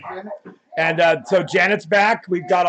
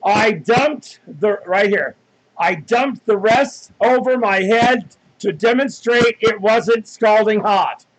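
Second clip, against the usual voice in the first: slow mocking read; slower than usual. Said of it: "His statement right here said".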